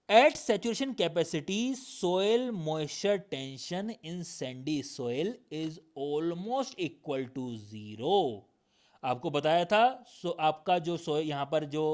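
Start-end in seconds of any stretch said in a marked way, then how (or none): 0.1-8.5 slow, deliberate textbook reading; measured classroom dictation, stretched words; definition read-out. Acted. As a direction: read it out word by word for note-takers. Reads notes out slowly.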